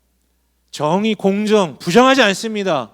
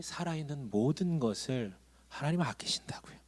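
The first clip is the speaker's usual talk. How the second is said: whisper; 5 semitones lower, 15 dB quieter than usual. Real, not acted. Preacher hushes key point.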